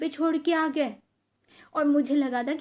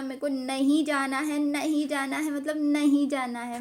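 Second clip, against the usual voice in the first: retold child's insistent protest, a bit raised; stubborn refusal; 3 semitones higher, 4 dB louder than usual. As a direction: lean on every नहीं, mock-stubborn.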